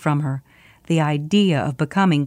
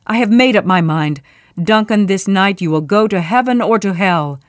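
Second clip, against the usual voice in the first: frantic; 4 dB louder than usual. Acted. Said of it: "as he grew more frantic".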